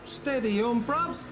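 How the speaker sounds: squeaky mock calm voice. Mock soothing high voice.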